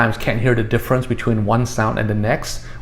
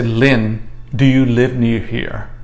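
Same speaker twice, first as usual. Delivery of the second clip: slow model phrase; much slower than usual. Shown as a demonstration. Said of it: "so this is closer, like, say".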